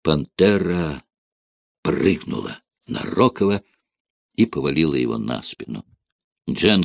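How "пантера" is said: usual speaking voice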